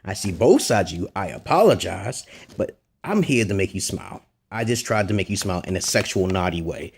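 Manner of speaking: low, subdued monotone pitch; kinda monotone. Shown as a demonstration. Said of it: "in a kinda monotone".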